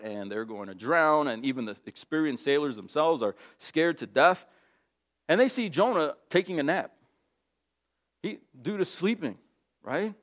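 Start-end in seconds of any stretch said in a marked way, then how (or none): none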